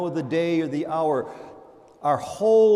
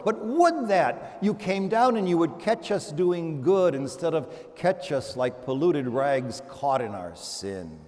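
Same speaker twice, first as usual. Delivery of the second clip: longing plea; slower than usual. Retold or imitated. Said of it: "Isaiah goes on saying".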